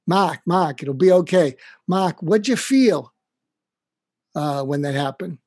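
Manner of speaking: put-on a kindly old dean calling him by name, talking him down; Boston Irish mentor. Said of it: "I'm gonna do my Mac imitation".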